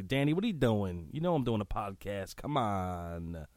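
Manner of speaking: playfully exasperated telling-off; mock scolding. Podcaster to his friend calling mid-show, mock scolding. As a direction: scold a buddy for interrupting, voice jumping up then dropping. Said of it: "talk to him like that".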